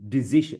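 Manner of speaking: DECISION with a short middle, di-ZI-shun; mispronounced. Shown as a demonstration. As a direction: say "decision" wrongly as di-zish-un. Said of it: "It's not".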